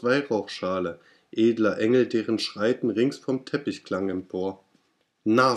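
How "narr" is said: louder cry of Narr; shouted insult. Acted. Narrator shouts at the raven, louder. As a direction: fling Narr at the bird. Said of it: "so schrie ich".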